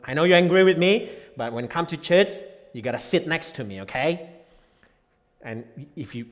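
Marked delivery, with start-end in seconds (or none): 0.0-4.3 high, loud urgent plea; voiced pleading spouse. Preacher voicing a spouse begging before church. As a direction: beg the angry spouse to sit close.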